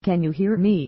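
only a hint of a scream into the phone; mild mock scream. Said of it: "She screams again".

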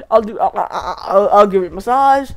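breaking into laughter mid-plea; laughing through it. Acted. Dinosaur bargains with its attacker, laughing through the words. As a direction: crack up while bargaining. Laughs while offering massage.

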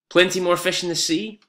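dramatic read of an opening line. Shown as a demonstration. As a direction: announce the hook line with punch.

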